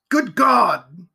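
loud, appalled outburst; alarmed exclamation. A narrator's reading. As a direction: exclaim in dismay. Alarm at silence behind door.

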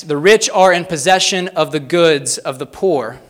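loud, measured quote; slow, deliberate reading. Real, not acted. Preacher reads a challenging quote on the rich, slow and deliberate. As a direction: read it out slowly and pointedly. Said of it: "read these slowly and succinctly".

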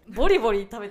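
talking while crunching snacks; crunching chips. Real, not acted. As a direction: mouth full of chips. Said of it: "食べたところは全部多分カットする".

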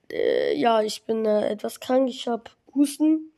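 hoarse, sick voice. Real, not acted. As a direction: talk with a cold and a cough. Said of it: "Wie man's hören kann".

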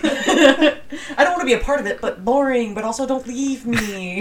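laughing. Real, not acted. Jokingly hurt, laughing.

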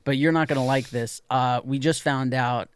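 lightly voiced nervous school official; awkward school caller. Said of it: "okay, ready?".

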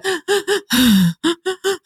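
put-on high catching-breath gasps of a calming child; child's shaky gasps. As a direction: imitate a child gulping air after crying. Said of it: "they kinda do the".

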